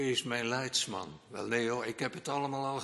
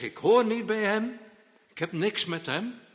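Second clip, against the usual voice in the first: heated denial; 9 semitones higher, 8 dB louder than usual. Retold or imitated. Peter swears he doesn't know Jesus.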